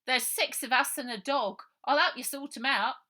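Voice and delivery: high, loud helpful offer; chirpy and forward; girl offering the sergeant help; cheeky girl. Acted.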